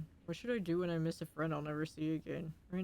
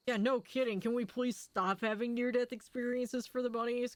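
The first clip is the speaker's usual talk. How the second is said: exasperated; 5 semitones higher than usual. Real, not acted. Exasperated at near-death scenes.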